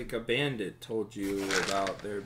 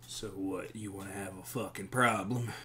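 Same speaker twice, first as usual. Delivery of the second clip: lightly voiced grump at the bar; surly bar patron. Game master plays surly bar patron.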